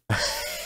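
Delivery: brief voiceless snicker; soft sly snigger. Acted. Gang laughing about Klin taking her, sniggering.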